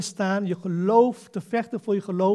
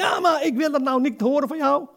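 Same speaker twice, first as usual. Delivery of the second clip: higher, louder mock protest; imitating an annoyed refusal; 7 semitones higher, 7 dB louder than usual. Preacher imitating relatives shouting back at believers, higher louder mock protest. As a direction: play a relative who refuses to listen. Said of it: "ook al komen ze tegen jou schreeuwen".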